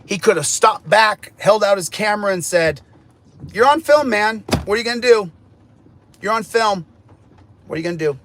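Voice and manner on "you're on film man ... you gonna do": acted challenge. Acts out what cop could say.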